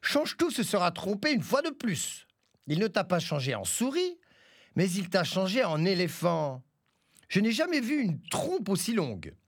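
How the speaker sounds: chèvre moqueuse, voix nettement plus aiguë; chèvre qui crie. Acted. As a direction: lancer la moquerie au loup-éléphant. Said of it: "Elle lui cria". (la chèvre crie en se moquant, voix aiguë)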